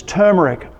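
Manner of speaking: "turmeric" with an r-coloured first syllable, no "oo"; TER-mer-ic pronunciation. Shown as a demonstration. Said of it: "I say turmeric".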